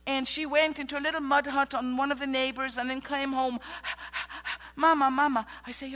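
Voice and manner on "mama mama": calling out. Retold or imitated. Child running home in storm.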